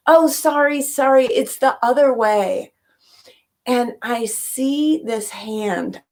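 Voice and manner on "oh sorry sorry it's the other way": higher-pitched mock call down a hall; retold yell. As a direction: call out an apology, raised pitch but not truly yelling. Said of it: "I yelled at her down the hall".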